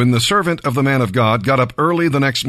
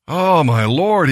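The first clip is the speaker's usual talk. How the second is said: a touch of anguish, drawn out slowly; slow, higher lament over the lost axe; understated dismayed cry, read slowly; mild cry of dismay; 5 semitones higher, slower than usual. Acted. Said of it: "he cried".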